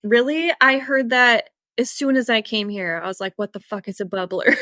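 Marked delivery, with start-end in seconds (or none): 3.4-4.5 laughing through a baffled question; half-laughed mock bewilderment; laughing quote. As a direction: giggle while asking what on earth it is. Retelling confusion on hearing bubbler.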